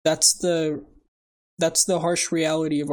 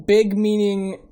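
emphatic quote; 3 semitones higher, 6 dB louder, slower than usual. Acted. Quiz quote in comic voice.

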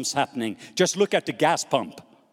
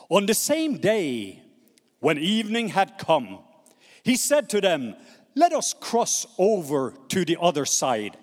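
measured, emphatic Bible reading; scripture reading. Acted. Preacher reading the Gospel to his congregation, measured and emphatic. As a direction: read it out in spaced, weighty phrases.

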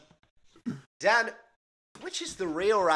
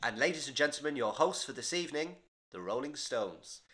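a famous singer's voice; 7 dB quieter than usual. Retold or imitated. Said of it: "all he's gotta say is".

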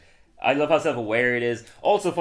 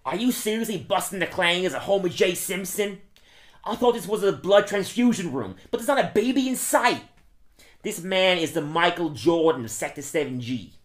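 repeated Wegman impression; 5 semitones higher than usual. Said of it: "Can you do it again?".

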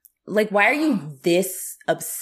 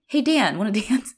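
higher, coy invitation; flirty Nancy; 6 semitones higher than usual. Retold or imitated. Nancy asking the teacher to dance, coy and higher. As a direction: lilt it like flirting. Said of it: "She's like".

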